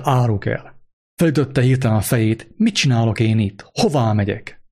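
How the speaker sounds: measured storytelling read aloud from the pulpit; story reading. A narrator's reading. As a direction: read the tale to the congregation, lightly voicing the figures. (mesemondó felolvasás)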